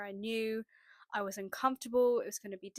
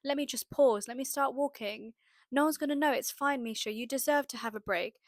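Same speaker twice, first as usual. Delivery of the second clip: tempting inner voice. Retold or imitated. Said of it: "These thoughts kept coming up".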